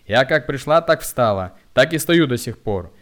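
loud, haughty insistence; proud defiance. A narrator's reading. Woman loudly insists she was always in line. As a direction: stand your ground loudly. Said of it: "с гордым видом".

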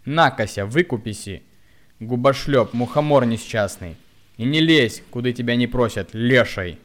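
loud stream of insults; abusive shouting. A narrator's reading. Woman loudly abuses the hunchback, shouting insults. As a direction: hurl abuse at him.

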